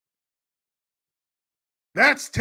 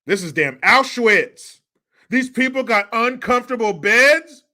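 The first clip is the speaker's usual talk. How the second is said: sarcastic outburst; 3 semitones higher, 5 dB louder than usual. Pretend. Mocking exaggerated outrage.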